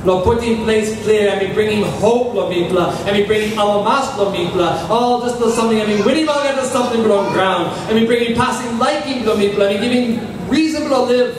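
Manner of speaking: rhythmic pleading prayer. Acted. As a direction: pray for the people. Congregational prayer for the people.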